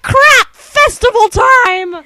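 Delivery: high, loud alarmed cry; mock panic. Villagers realising the festival is here, mock panic. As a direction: yelp it like a startled crowd.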